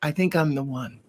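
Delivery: hushed, near-whispered secret; confiding patient. Retold or imitated. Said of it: "one of the things they'd say".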